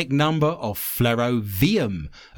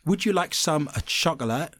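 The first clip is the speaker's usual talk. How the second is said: mock British accent; 4 semitones higher than usual. Host mimics British speech as Americans hear it, mock British accent. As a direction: parody how British sounds to Americans. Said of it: "how British accents sound to Americans".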